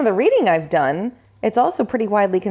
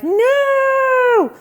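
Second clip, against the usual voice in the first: high, loud, drawn-out wail of refusal; mock dismayed cry; 5 dB louder than usual. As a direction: howl it in exaggerated protest. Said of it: "And I was like".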